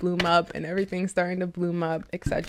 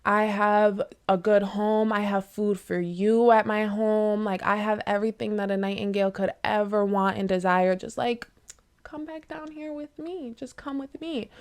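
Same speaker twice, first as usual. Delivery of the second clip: cooing. Retold or imitated. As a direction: coax the bird down sweetly. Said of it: "coo the nightingale down".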